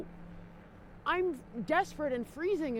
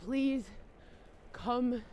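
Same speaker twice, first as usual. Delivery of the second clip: begging; slower than usual. Real, not acted. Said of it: "I am begging you".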